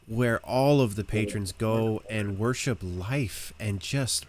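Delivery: lightly voiced devout local, gushing; a touch of blissful devotion; adoring townsperson.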